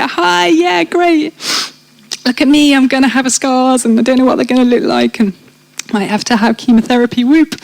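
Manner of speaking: sarcastic chirpy voice, like breezy bad news; mock cheerful. Retelling how she told her new boyfriend about cancer, mock cheerful.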